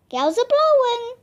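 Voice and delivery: high, loud pirate cry; pirate Pinky calling over the wind. A narrator's reading. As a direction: call over the howling wind. Pirate Pinky remarks on storm.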